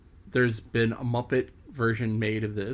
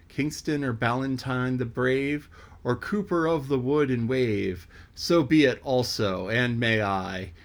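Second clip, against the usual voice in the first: poem recitation. Acted. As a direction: recite it like an old ballad to a young reader. Reads the poem to the purchaser.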